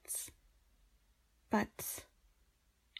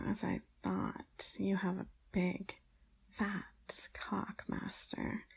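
seductive whisper. Acted.

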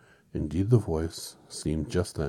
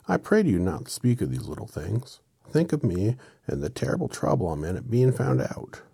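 lightly voiced, high and loud entreaty; pleading little man; 7 semitones higher, 7 dB louder than usual. Oz begging the friends for sympathy, pleading little-man voice. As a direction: plead with a slightly theatrical lilt. Plays Oz in the story.

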